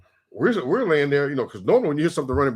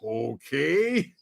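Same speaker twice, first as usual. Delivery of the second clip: drawn-out, softer okay with rising tune; dubious okay; 5 dB quieter than usual. Retold or imitated. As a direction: stretch it out, unconvinced. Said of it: "I was like".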